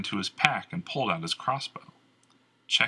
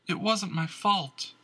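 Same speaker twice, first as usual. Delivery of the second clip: heavy voice; 11 semitones higher, slower than usual. Acted. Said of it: "Erica said in a heavy voice".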